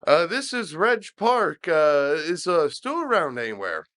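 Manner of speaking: a light mock-polite stranger voice; prank caller voice. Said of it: "is like".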